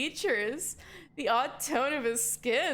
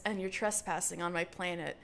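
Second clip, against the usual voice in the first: purring alien; 6 semitones lower, 5 dB quieter than usual. Acted. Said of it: "he purrs".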